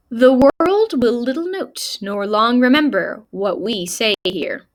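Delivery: measured, solemn recitation with pauses; formal speech reading. Acted. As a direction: read it out like an orator, phrase by phrase. Reads the speech aloud.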